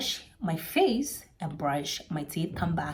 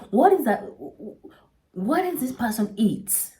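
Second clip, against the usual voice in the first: higher and louder, appalled; shocked outcry; 4 semitones higher, 4 dB louder than usual. Retold or imitated. Shocked at the stinking room, loud and appalled. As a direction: recoil at the stench.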